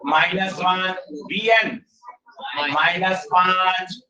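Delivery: slow, stretched-out terms, one at a time; step by step. Shown as a demonstration. Teacher walking students through the sum, step by step. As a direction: spell out each step deliberately. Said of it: "आराम से एक एक step बढ़ाओ".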